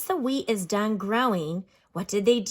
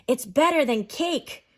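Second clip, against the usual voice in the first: excited; 5 semitones higher, 3 dB louder than usual. Shown as a demonstration. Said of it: "notice how I said that with some feeling and some excitement".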